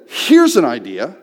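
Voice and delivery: toned-down yell. Retold or imitated. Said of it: "I was much, much louder than this".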